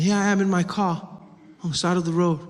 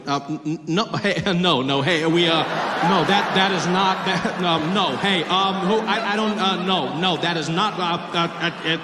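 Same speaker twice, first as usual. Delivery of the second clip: flustered stammering. Retold or imitated.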